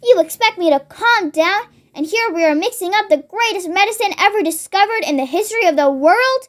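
mildly worked-up, quickening protest; indignant retort. Acted. Mister Cranky defending his great medicine to his wife, mildly indignant. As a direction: protest incredulously, rising into the final question.

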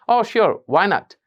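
bright, loud Oh; happy. Shown as a demonstration. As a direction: answer gladly. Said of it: "খুব একটা খুশি নিয়ে". (খুশি হয়ে উত্তর)

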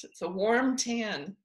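robot voice. Pretend. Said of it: "don't speak like a robot".

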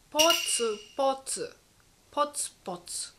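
whispered, separate little drips; dripping water sound. Shown as a demonstration. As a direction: whisper it like drops falling. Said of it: "é o som dos pingos de água caindo".

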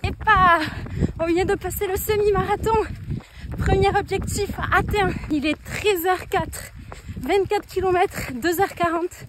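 while running. Real, not acted. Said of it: "parler en courant".

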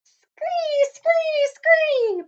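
very high creature screech; moth screech. Acted. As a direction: shriek like a swarm of moths. Moths screeching.

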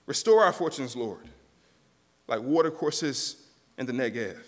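mildly bold plea, strongest at the opening; bold petition. Acted. Preacher voicing the psalmist's plea to God, mildly bold. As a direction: ask with a touch of boldness, then ease off. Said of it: "he starts to ask for it in boldness".

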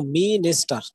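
"minister" with the first syllable stressed; teacher's demo of "minister", first syllable marked. Shown as a demonstration. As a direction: lean on the opening vowel of "minister". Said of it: "there will be a kind of stress".

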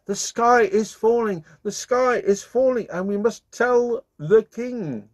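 high and frightened, telling the rooster; anxious cry. Acted. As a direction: fluster the alarm to a friend. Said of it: "she cried".

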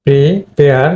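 প্রিপেয়ার with a short "pri"; pri-PARE; short i sound. Shown as a demonstration. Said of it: "এখানে কিন্তু short ই".

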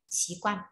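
Xí quan said slowly and clearly as a model word; modelling a Chinese word. Shown as a demonstration. Teacher models the pronunciation of Xí quan for the class. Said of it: "từ này đọc là xí quan nhé".

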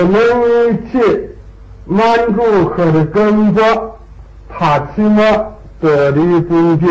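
一字一顿、拖长音节地读满语例句; slow, drawn-out demonstration reading of a Manchu sentence; 示范朗读满语. Shown as a demonstration. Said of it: "我读一遍". (放慢速度，满语示范朗读)

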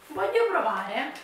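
stumbling over words from the cold; shivering and tripping on syllables; teeth chattering. Real, not acted. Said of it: "non riesco a parlare perché fa freddo".

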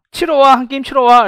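high, loud, eager neighbourly invitation; inviting resident. Acted. Resident invites a friend over for screen golf, high eager boast. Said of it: "이러면서".

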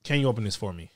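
blunt rude request; rude ask. Shown as a demonstration. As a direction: demand it bluntly. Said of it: "some sound rude".

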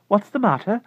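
a startled lady answering; puzzled neighbor lady. Acted. Mrs Saunders answering her odd neighbor, puzzled.

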